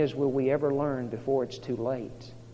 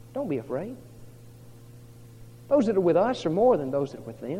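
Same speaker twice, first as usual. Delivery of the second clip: calm, measured reassurance in a quoted voice; 3 semitones higher than usual. Retold or imitated. Prophet reassuring his frightened servant, acted calm. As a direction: settle the frightened one down. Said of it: "Elisha very calmly says".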